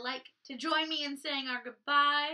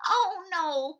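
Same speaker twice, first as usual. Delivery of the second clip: mild cry; 4 semitones higher, 7 dB louder than usual. Acted. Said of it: "cried the sisters".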